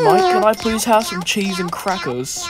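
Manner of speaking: jokey fake British accent; mock British accent. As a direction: play a cartoon Brit asking politely. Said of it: "I'm turning British".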